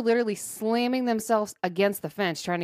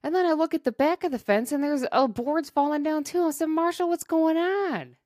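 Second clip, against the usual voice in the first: alarmed; 8 semitones higher than usual. Real, not acted. Alarm at broken fence.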